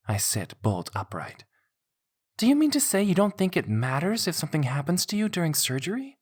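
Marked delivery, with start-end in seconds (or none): 2.4-6.2 high, louder incredulous outburst; upset disbelief. Acted. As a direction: demand it in shock. Horrified at his reasoning.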